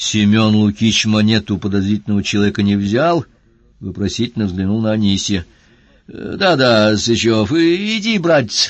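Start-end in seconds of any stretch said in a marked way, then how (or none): 6.1-8.7 embarrassed, abashed, very slow and drawn out. Tulpanov sends the constable Sychev away after calling him for nothing, embarrassed. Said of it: "смущенно сказал Тюльпанов".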